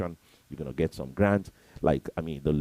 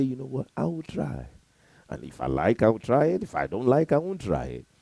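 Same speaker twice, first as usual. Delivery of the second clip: higher, louder, carefree "I will try" shrug; lightly voiced careless excuse-maker, pitched higher; flippant excuse-maker; 8 semitones higher, 5 dB louder than usual. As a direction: play the noncommittal quitter, breezy and a touch loud. Voicing the unsuccessful person's excuse.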